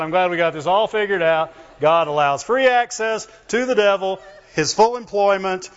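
dry mocking irony; sarcastic. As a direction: tease the belief sarcastically. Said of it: "I'm being sarcastic".

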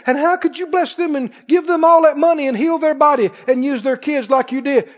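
high, mock-outraged whine at God; indignant complaint to God. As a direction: act out the offended churchgoer complaining. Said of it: "Somebody said".

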